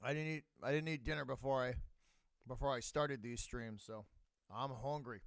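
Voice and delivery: talking while snacking; words round a mouthful of food; wolfing down food. Real, not acted. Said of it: "Excuse me for snacking".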